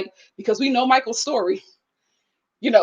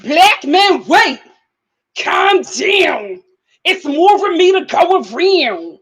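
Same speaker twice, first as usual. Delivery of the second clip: lightly mocking Sarah; 5 semitones higher, 3 dB louder, much slower than usual. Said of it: "what the black said".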